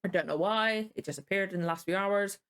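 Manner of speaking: talking around a tongue ulcer; careful speech with a sore tongue. Real, not acted. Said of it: "I talk a bit funny".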